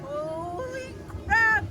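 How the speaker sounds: laughing. Real, not acted. After coaster laughter.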